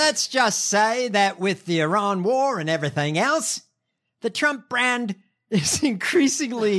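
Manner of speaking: bad Australian accent. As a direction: put on a clumsy Australian accent. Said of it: "In my shitty Australian accent".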